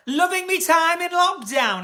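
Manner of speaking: slow Northern English "Loving me time"; Northern accent. Shown as a demonstration. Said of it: "Are you from North?".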